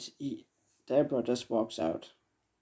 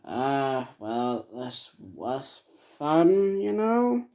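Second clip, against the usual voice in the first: put-on boy's voice; much slower than usual. Boy behind the door after his deed, lightly voiced boy. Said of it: "a boy's voice saying".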